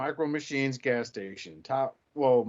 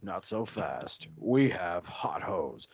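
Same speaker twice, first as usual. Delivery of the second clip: calm hero voice; 5 semitones lower, slower than usual. Acted. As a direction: draw it out like a steady commander. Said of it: "Optimus Prime's like".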